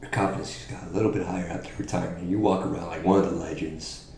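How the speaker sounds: quiet menacing taunt. Acted. Hushed taunt in promo.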